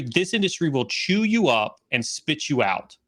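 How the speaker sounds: measured stress on "chew you up" and "spit you out"; deliberate, distinct emphasis. Real, not acted. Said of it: "I say that very s-, distinctively".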